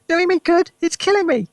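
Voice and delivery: put-on high, loud shriek from an old woman; grandma screeching the word; screamed. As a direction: scream it in protest. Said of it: "she screamed".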